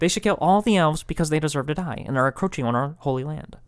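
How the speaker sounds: lightly voiced smug pundit Jack Frost; a hint of a ranting villain; Jack Frost impression. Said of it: "my Jack Frost impression".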